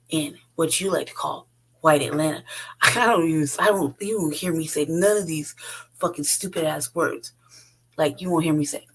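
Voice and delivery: ordinary delivery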